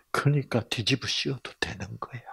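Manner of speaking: soft unvoiced whisper; hushed preacher's aside. Real, not acted. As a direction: whisper it as a secret to the congregation.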